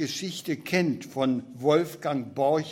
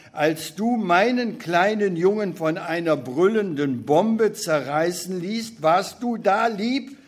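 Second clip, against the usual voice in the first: rising, louder bitter reproach; accusing; 3 semitones higher, 3 dB louder than usual. Acted. Beckmann confronting God over his dead son, bitter and rising. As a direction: hurl the questions at God.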